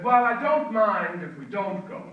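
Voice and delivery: high, slow, laughing through the words; mock child voice breaking into laughter; laughing daughter voice. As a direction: giggle out the kid's reply.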